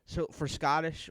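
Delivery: normal talking voice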